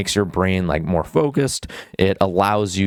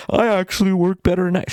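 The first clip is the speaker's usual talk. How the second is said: much higher, nasal-free mock voice of a lazy student; mocking whiny excuse; 12 semitones higher than usual. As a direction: mimic the excuse to ridicule it. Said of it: "Don't say".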